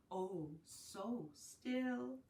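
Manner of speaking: slow, drawn-out hushed question; hushed wonder. Acted. Teacher hushing over sleeping bunnies, slow and soft. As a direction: hold back as if not to wake them.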